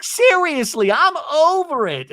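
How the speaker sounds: high-pitched mock exasperation; hammed-up done-with-this whine; retold fed-up outburst. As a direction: imitate someone storming out. Acted storming out.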